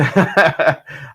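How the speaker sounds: real short burst of laughter; amused laugh. Real, not acted. Streamer amused after his bad accent, real laugh. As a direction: laugh at your own joke.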